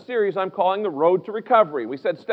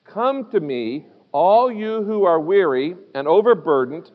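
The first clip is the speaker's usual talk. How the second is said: slow, measured scripture reading; deliberate recitation in short, spaced phrases; scripture read aloud; 2 semitones lower than usual. Real, not acted. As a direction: lead the congregation through the verse slowly. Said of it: "Would you read it aloud with me?".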